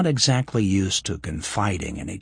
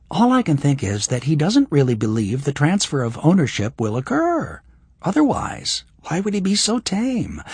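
put-on higher young woman's voice; lightly voiced young woman; Kira's voice; 5 semitones higher, 3 dB louder than usual. Voices Kira.

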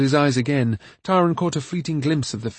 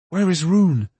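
crying out; 5 semitones higher, 3 dB louder than usual. A narrator's reading. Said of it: "Tauren cried".

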